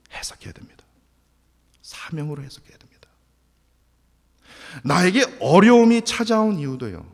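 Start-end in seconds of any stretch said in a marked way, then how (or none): 0.1-3.1 hushed whisper of the key point. Acted. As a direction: whisper it like a secret truth. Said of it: "preacher whispers key point". (속삭이듯 핵심을 전하기)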